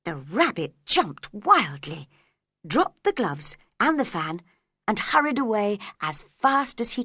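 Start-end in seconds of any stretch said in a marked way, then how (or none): none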